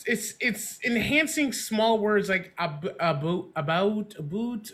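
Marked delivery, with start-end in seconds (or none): 3.0-4.7 intento de acento canadiense en "about"; "about" with a Canadian vowel, drifting toward "aboot"; Canadian accent. Shown as a demonstration. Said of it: "the Canadian accent is so, like, subtle".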